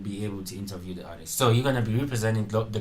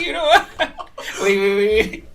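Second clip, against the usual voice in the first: excited; 12 semitones higher, 7 dB louder than usual. Real, not acted. Excited about sound board.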